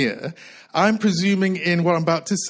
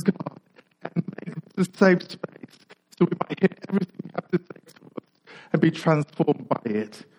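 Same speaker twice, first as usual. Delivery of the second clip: softer, earnest praying voice, with pauses between phrases; spoken prayer; 4 dB quieter than usual. Real, not acted. Preacher asking God to bless this moment, prayerful. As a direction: pray it gently, phrase by phrase. Opening prayer before the sermon.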